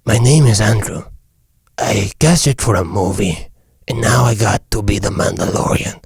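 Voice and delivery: Southern-accented movie hero. Shown as a demonstration. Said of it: "Even the Southern accent is way better".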